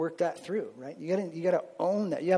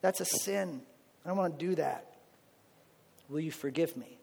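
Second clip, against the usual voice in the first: humble prayer; 3 semitones higher than usual. Shown as a demonstration. Believer praying to God for forgiveness, fading humbly. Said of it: "Ask him for forgiveness. Say".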